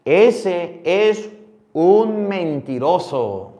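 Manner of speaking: "un mentiroso" alargado y enfático; sentencia lenta y fuerte. Shown as a demonstration. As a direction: remachar la palabra, despacio. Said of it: "dice la Biblia". ("mentiroso" arrastrado, más agudo y fuerte)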